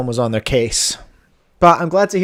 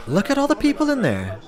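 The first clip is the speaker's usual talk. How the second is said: amused; 10 semitones higher than usual. Real, not acted. Laughing at robot view.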